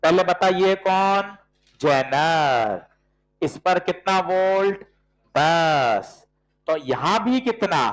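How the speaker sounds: slow, patient step-by-step questions; walk them through it slowly; a teacher slowing down for a stuck student. Real, not acted. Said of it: "थोड़ा और धीरे समझाता हूं".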